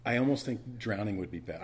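ordinary delivery

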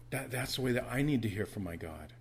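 usual speaking voice

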